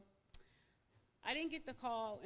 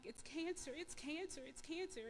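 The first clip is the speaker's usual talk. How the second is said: retold distress; 6 semitones higher than usual. Patient telling her cousins the news, retold distress. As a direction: retell a panicked cry without shouting it. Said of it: "They heard me screaming so loud".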